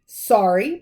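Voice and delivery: loud, sharp, rising bark. A narrator's reading. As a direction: snap the word back in outrage. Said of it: "barked Hagrid".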